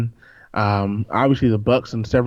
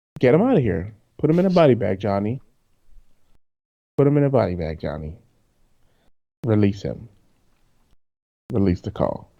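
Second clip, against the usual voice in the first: heated, passionate rant with swooping pitch. Ranting about a player who can't block: passionate rant. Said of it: "you sound really passionate about this right now".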